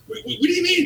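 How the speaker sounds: high-pitched, stammering disbelief; mock fluster. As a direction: imitate a frantic club owner, tripping on the first word. Club owner baffled in retold meeting.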